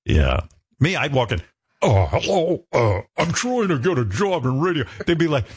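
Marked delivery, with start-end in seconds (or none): 1.8-4.8 put-on kid-like nervous voice. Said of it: "You sound like a kid".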